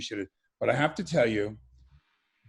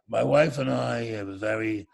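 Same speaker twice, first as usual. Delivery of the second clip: slow, drawn-out New York Jewish drawl with long exhales; New York Jewish accent; 4 semitones lower, slower than usual. Retold or imitated. Old therapist telling his patient he is retiring, in a slow New York Jewish drawl. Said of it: "are very New York Jewish".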